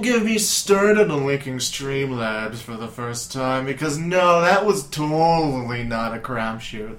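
slow, dripping sarcasm; mock innocent sarcasm; heavy sarcasm. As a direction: pretend it was easy, mean the opposite. Sarcastic complaint about Streamlabs.

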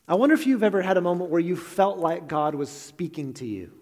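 "felt like" leaned on to stress the doubt. Shown as a demonstration. Preacher stressing "felt like" to the congregation, weighing the words. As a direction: press on "felt like God was speaking". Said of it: "I emphasize felt like God was speaking".

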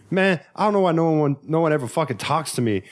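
mock the self-pitying stranger; mocking homeless guy. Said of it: "He's like".

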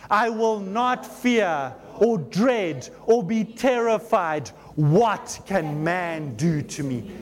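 slow, deliberate declaration; slow group declaration. Real, not acted. Preacher leading the church in declaring scripture, slow and deliberate. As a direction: proclaim each phrase slowly with the congregation.

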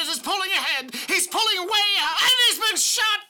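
race caller. Pretend. Mock race call, building.

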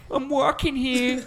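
high, loud, drawn-out Boston holler; Boston accent. Acted. Founding father out in the street, Boston-accented yell. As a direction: laughingly yell it in broad Boston. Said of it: "Boston accent is like".

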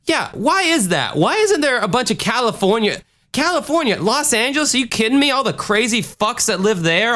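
high-pitched indignant rant, building up; ranting in disbelief that nobody picks on California; mock outrage. Host ranting to listeners about Florida's bad rap, in high mock outrage.

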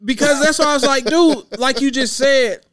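host excitedly recounting his own reaction; animated retelling. Retold or imitated. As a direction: tell it like you just realized.

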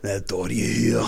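slow, fumbled mock South African; South African accent. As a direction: drag out a failed South African attempt. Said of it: "South African".

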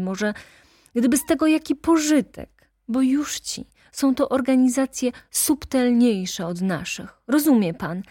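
heated attorney denouncing the nobles; ranting lawyer. Acted. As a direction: lash out at the aristocracy. Lawyer's tirade on aristocracy.

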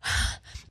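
wordless huffed breath; exasperated sigh. Shown as a demonstration. Out of comebacks in an argument, huffy sigh. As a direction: huff out air instead of replying. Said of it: "start to make sounds".

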